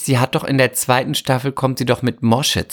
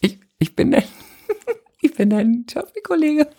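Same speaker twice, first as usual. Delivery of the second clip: much higher, stammering giggly voice; nervous fangirl; 11 semitones higher than usual. Pretend. Fan meets her idol on set, high nervous stammer.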